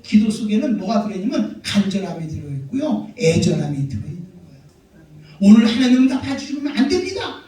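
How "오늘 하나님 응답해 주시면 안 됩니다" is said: urgent plea. Acted. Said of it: "긴박감이 들어져 있는 거예요".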